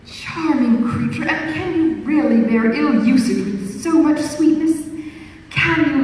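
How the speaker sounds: lightly voiced honeyed suitor; flattering gallant. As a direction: lay the gallantry on thick.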